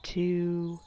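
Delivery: measured body-scan guidance, long pauses; guided meditation. Acted. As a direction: count them through tensing and releasing.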